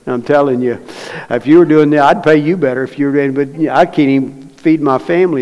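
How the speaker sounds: half-shouted grievance at God; complaining to God. Retold or imitated. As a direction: retell the gripe with heat. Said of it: "cried and complained to God".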